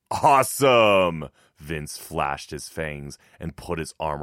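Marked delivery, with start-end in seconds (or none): 0.1-1.3 loud, drawn-out cheer; high, gleeful exclamation; thrilled brother. A narrator's reading. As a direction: relish it, stretching the word out slowly. Brother thrilled by the gory news.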